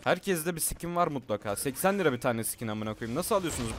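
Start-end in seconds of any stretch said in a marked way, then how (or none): none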